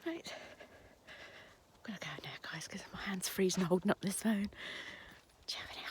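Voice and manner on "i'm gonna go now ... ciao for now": whispering. Real, not acted. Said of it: "Don't know why I'm whispering".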